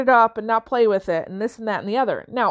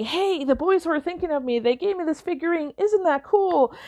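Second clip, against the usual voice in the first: put-on lightly raised childlike voice, eager; excited little girl; 6 semitones higher than usual. Daughter showing mom the gift, lightly voiced child. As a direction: mom voicing her small daughter's delight.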